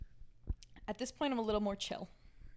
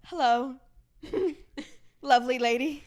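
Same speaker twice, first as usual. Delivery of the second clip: sweet-talking greeting; 6 dB louder than usual. Retold or imitated. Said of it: "I go".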